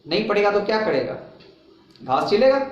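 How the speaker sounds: mock scolding parent. Teacher mimics a parent scolding a lazy child, mock taunt. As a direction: sneer it like a fed-up parent.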